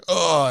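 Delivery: mild mock yell; imitated audience yell. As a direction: mimic moviegoers crying out, without full volume. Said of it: "screaming and yelling and going".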